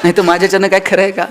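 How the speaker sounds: lightly filmy hero line, with a laugh; filmy dialogue. Retold or imitated. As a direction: deliver it like a mild film-hero dialogue. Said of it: "एक dialogue मारायचा". (हलक्या फिल्मी अंदाजात dialogue)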